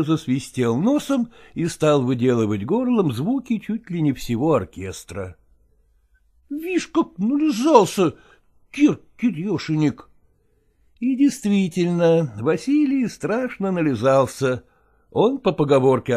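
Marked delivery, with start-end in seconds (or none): none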